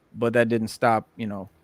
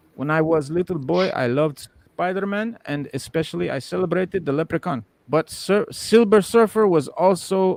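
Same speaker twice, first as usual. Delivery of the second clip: high, terrible, bad put-on German accent; 7 semitones higher than usual. Relaying what a German MC homie said, in a terrible German accent. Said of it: "this is a terrible German accent".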